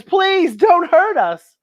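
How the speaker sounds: high, slow timid plea; pleading monster. Acted. Frightened monster begging Buffy, high slow plea. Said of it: "another monster says".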